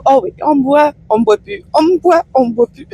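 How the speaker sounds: high playful singsong; playful laughing. Real, not acted. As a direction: tease it out laughing. Playful with streetlight visibility. (voix enjouée et rieuse)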